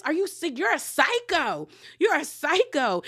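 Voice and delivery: retold indignant outburst, stretching the insult; Bronwyn. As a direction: imitate her pissed-off accusation. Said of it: "Bronwyn is pissed".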